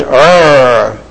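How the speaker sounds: put-on low frustrated little-boy growl. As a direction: growl through clenched teeth. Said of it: "making a little boy sound".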